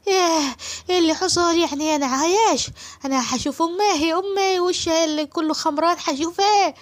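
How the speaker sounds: high, loud complaining servant voice; jealous servant boy. Acted. Amer protesting that Asem wants to marry Suad, high jealous whine.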